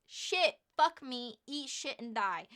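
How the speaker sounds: high, loud mock panic; panicked swearing. Hearing the hot guy is coming in, loud panicked cursing. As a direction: curse at yourself in horror.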